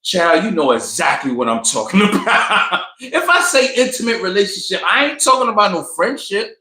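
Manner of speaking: high, knowing call-out breaking into a laugh; knowing look. Retold or imitated. Gail calling out her dodge on intimate relationship, knowing and amused. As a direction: call her bluff, pitch climbing, amused. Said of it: "Gail gave her the look like".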